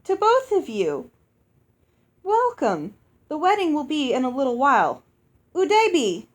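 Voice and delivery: loud, high, joyful giant hostess greeting; booming giantess. Acted. Giantess Uoxi welcoming her guests, loud and joyful. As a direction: boom it out like a delighted giantess.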